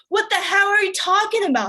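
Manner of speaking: high-pitched shocked question; mock outrage. Date jumping off Kate mid-foreplay, mock outrage.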